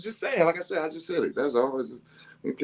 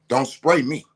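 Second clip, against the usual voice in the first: louder stern don't spray me; raised stern warning; firm warning; 5 dB louder than usual. Retold or imitated. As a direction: warn them off firmly. Warning kids not to spray.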